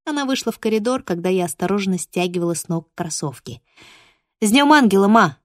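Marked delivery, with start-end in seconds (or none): 4.4-5.4 cheerful greeting. Acted. Greeting mom on birthday.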